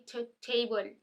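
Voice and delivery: टेबल said with an aspirated ठ; native-style breathy T in टेबल. Shown as a demonstration. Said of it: "natives बोलते हैं टी".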